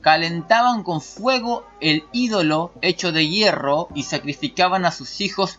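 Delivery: slow, deliberate commentary reading; emphatic read-aloud. Acted. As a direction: read it out in measured, stressed phrases. Lee el comentario en voz alta. (lectura enfática y pausada)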